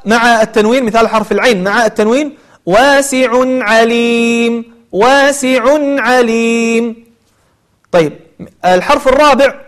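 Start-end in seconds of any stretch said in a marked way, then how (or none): 2.7-7.1 واسع عليم very slow, tanween clear before the ain; recited example. Shown as a demonstration. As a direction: chant واسع عليم slowly.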